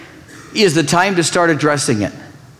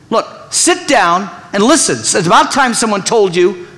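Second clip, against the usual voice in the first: raised, pushy lecturing tone; bossy wrong way; 4 semitones higher than usual. Shown as a demonstration. Pastor contrasting a bossy demand with a question, mock stern. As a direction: talk down to them. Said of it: "Listen to the difference".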